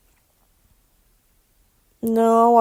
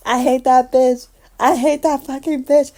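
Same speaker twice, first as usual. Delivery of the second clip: louder, mock-angry rant; mock hate; 3 semitones higher, 6 dB louder than usual. Fan retelling her rant about a character, mock angry. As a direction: vent at the character, hammed-up. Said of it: "I go".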